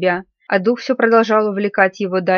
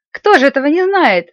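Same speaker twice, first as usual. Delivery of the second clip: lightly voiced boy's exclamation, higher and louder; boy exclaiming; 5 semitones higher, 5 dB louder than usual. A narrator's reading. Peter chimes in at the family fireside, mildly exclaiming. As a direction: call it out as a mild, eager cry. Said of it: "вскричал Питер".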